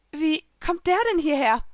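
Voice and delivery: baffled narrated question; confused. A narrator's reading. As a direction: ask it in rising bewilderment. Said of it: "fragte ich verwirrt".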